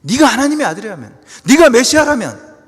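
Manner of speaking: high, loud preaching cry; mocking challenge. Mockers challenging Jesus on the cross, loud high jeer. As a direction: hurl each "if" as a rising-volume taunt. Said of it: "쏟아진 조롱이 바로 이거예요".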